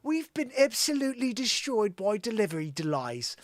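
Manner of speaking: clumsily faked Cockney English; bad English accent. Host struggling to quote a singer, bad English accent. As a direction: attempt an English accent and not quite get it. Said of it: "why can't I do an English accent".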